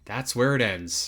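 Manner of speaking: soft, slow, understated close; subdued repeat. Real, not acted. Host closes out the demo footage, soft and subdued. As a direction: let it drop, quiet and unhurried.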